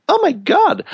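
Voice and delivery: high, gushing mock excitement; mock ego gushing. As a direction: parody the ego thrilled at its own importance. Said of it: "that's like".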